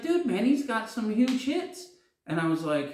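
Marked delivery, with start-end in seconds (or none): 0.0-1.8 excited guy. Retold or imitated. Stranger eagerly tells him the singer has hits. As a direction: hype up the star to a clueless friend.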